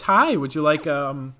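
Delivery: lightly bright sales pitch voice; a hint of a chirpy cashier pitching a deal; mild put-on retail voice; customer service voice. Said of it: "I put on the voice".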